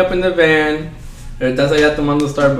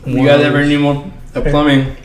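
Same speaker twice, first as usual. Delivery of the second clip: talking while chewing; words round a bite of food; mouth full; 2 semitones lower than usual. Real, not acted. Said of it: "Sorry, I'm eating a barrita".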